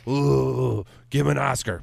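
swooning, mock-impressed gush. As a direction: gush like a starstruck fan. Mocking gushing Oscar voters.

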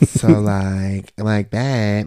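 drawn-out caricature of a woman; exaggerated female voice. Husband caricaturing wife's voice, drawn out. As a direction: drag out the vowels, mocking. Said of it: "I just hear that".

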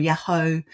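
Yahoo said yah-HO, ending in an O; alternative ancient pronunciation. Shown as a demonstration. Scholar offers another possible form of the name, alternative pronunciation. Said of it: "how his name was pronounced".

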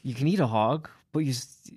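loose Irish lilt, lightly done; drunk Irish accent. Retold or imitated. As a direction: play a tipsy Irishman. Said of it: "I can't really do an Irish accent".

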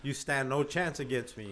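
wrestling promo. Pretend. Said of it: "time to cut a promo".

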